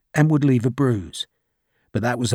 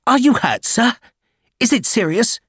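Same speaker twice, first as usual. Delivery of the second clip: much higher, louder anxious officer calling out; eager young lieutenant; 10 semitones higher, 3 dB louder than usual. Acted. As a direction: call out breathlessly to the major. Lieutenant anxiously asking after wound.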